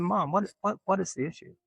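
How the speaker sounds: can't believe what mom is saying; incredulous protest. Retold or imitated. To mom who denies the story, high and baffled. Confronting mom's denial.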